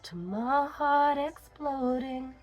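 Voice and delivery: soft unvoiced whisper of the lyric. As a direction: breathe the words without voice. Whispering lyrics along with song.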